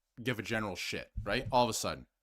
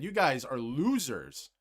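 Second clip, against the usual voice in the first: imitated coach scolding; slower than usual. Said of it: "Berube that came in and said".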